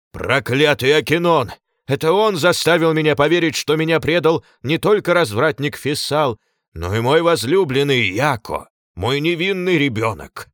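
loud, high raging cry; furious shout. A narrator's reading. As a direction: rage at the traitor. Glaucus rages at betrayal.

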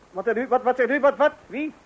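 can't believe what he's hearing, building up; stammering astonishment that climbs; startled disbelief. Acted. Stunned by news on phone.

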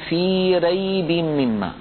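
في ريب مما with a thinned ra; wrong thin ra. Shown as a demonstration. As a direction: say ريب slowly with a light r. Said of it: "ولا يقول".

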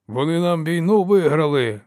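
gruff lord barking his protest; barked. A narrator's reading. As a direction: snap it out, fist on the bench. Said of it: "гаркнув Березін".

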